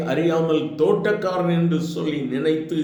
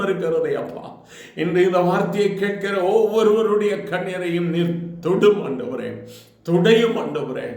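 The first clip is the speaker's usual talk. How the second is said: rising, earnest pastor's prayer; lightly heightened Tamil prayer voice; fervent prayer; 2 semitones higher than usual. Real, not acted. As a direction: pray over the listeners with growing fervour. Closing prayer after sermon.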